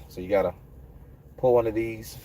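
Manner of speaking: muffled behind a mask; talking through a mask; through a face mask. Real, not acted. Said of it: "excuse the mask".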